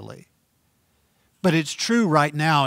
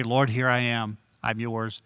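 quiet prayer; 3 semitones lower, 4 dB quieter than usual. Shown as a demonstration.

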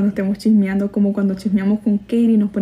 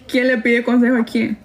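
laugh, then ask through the amusement; tickled, laughing question; amused laughing. Real, not acted. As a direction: chuckle into the question. Laughs at who advises whom.

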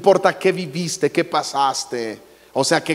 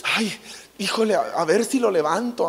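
higher, dithering and unsure; hammed-up nerves; mock nervous; 4 semitones higher than usual. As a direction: act a nervous healer doubting himself. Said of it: "si Jesús llegara nervioso así de".

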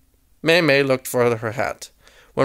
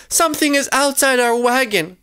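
high-pitched, anxious warning; scared; 8 semitones higher than usual. A narrator's reading. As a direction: warn her in a frightened high voice. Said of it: "The Golly sisters are scared".

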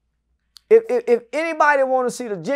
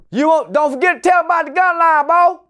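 shouted reminder; 3 semitones higher than usual. Real, not acted. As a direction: yell the reminder to him quick. Calling out to someone off-mic.

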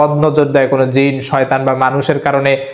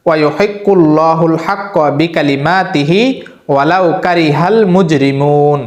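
slow, careful, measured recitation of the verse; slow Quran recitation; slower than usual. Shown as a demonstration. Teacher reciting the verse for viewers to memorize, slow careful recitation. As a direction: recite each syllable clearly for listeners to copy. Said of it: "এই দুইটা আয়াত ভালোভাবে আমি বলছি".

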